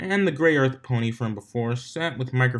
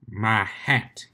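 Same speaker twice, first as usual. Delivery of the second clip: flatly. A narrator's reading. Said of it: "Applejack said flatly".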